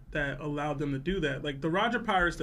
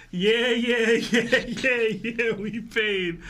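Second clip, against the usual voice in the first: excited; 4 semitones higher, 4 dB louder, much slower than usual. Acted. Reading a donation message in a hyped voice.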